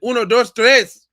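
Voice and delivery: loud, high sing-song beeping count; mock smoke alarm beep. Streamer imitating the Spanish smoke alarm, loud beeping. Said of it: "It said".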